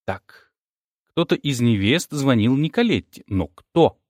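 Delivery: plain reading voice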